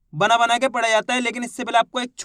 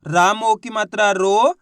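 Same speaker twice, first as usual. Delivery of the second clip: "राम ओ की मात्रा रो" slow and deliberate; slow teaching demo; 3 dB louder, slower than usual. Shown as a demonstration. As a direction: model it slowly for the class. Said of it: "तो रा का उच्चारण कैसे करेंगे".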